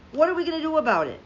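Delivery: pleading fury, rushed; exasperated repeat. Real, not acted. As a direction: fire it back even harder. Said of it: "I'm so furious right now".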